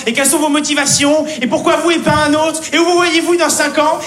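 a hint of a droning recruiter; mock recruiter. Stand-up mocking job interview questions, mild mock recruiter.

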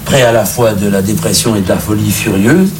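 usual speaking voice

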